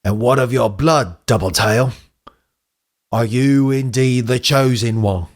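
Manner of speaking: put-on lightly accented, measured elder; old echidna mentor. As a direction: play a cryptic elder with a touch of accent. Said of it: "that's, that's the voice".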